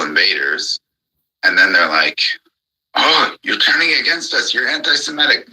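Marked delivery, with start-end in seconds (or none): 2.9-5.5 high-pitched mocking whine, much higher than his own voice. Ranting vlogger mimics people he argues with, high mocking whine. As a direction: parody the whiny complaint high up.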